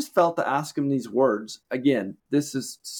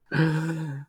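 long audible exhale; heavy sigh; 2 semitones higher than usual. Retold or imitated. Retold boy's refusal, then a sigh.

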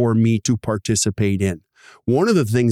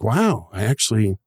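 happy relief rising much higher by the end; relieved dentist; 4 semitones higher than usual. Retold or imitated. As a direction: dentist thrilled to finally see cash in the bank. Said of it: "You're like".

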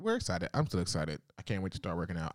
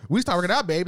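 mock eager partner; 11 semitones higher, 8 dB louder, faster than usual. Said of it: "And I was all like".

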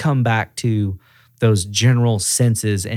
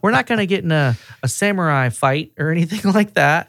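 high-pitched, friendly humoring voice; playful coaxing; 6 semitones higher than usual. Acted. Calming an angry buddy out of a fight, playfully coaxing. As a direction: talk him down lightly, pitched well up. Same coaxing act continues.

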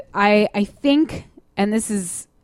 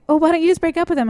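imitating her friends; 8 semitones higher, faster than usual. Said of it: "they'd be like".

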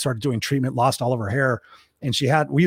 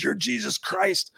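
imitating a drunk, high and slow; drunk guy; 8 semitones higher, 3 dB quieter, slower than usual. Drunk marine hailing the bearded teller as Jesus, high slow slur. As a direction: stretch it out, high-pitched and awestruck like a wasted guy. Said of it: "he's really drunk".

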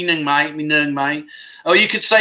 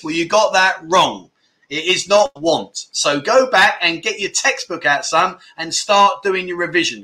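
mock teacher scolding. Mock teacher correcting a pupil.

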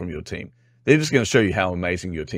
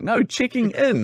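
"checking in" said slowly and high, each syllable spelled out; over-enunciate "checking in" to correct them; patient, exaggerated correction; slow clarifying; slower than usual. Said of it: "accent plays tricks on them".

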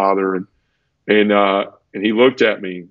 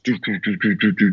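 quick run of mechanical doo sounds; soft, rhythmic clanking noise; imitated door clatter; 3 dB quieter than usual. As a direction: mimic a jail door rolling open. Imitates cell door opening.

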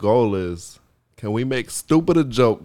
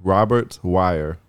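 mock serious name; 5 semitones lower, much slower than usual.

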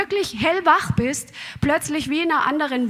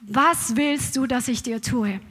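softer, gentle question from Jesus; 5 semitones lower, 5 dB quieter than usual. Retold or imitated. Jesus asks the blind beggar softly what he wants. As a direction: ask it tenderly. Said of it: "dann sagt Jesus diese Frage".

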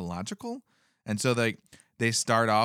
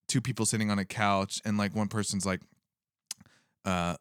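ordinary talk, nothing marked

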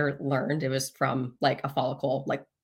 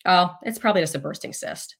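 imitating a breezy doctor, lightly higher; super nonchalant; 4 semitones higher than usual. Urgent care doctor brushing off patient's pain, super nonchalant. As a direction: toss off the diagnosis like it's nothing. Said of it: "Just super nonchalant".

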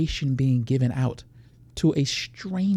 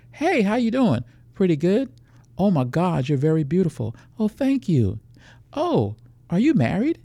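acted pickup chat; 5 semitones higher, 3 dB louder than usual. Acting out predator and woman chat.

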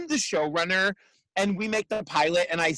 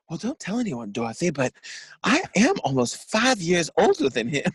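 put-on Blanche's Southern accent. Quoting Blanche confessing her age to Dorothy, in Southern accent. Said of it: "wow, you do impressions well".

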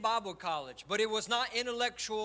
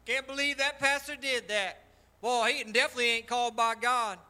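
condemning people. Retold or imitated. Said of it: "People say".

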